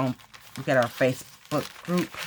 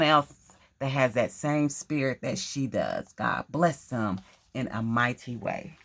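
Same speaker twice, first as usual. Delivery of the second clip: prayer; 2 semitones lower than usual. Acted. Prays over Holly.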